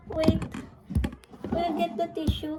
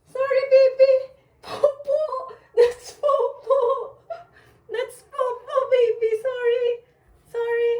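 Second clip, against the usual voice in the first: higher-pitched, repeated sorry to a little one; apologetic cooing; 4 semitones higher, 3 dB louder than usual. Real, not acted. Parent apologising to a child after a prank, cooing.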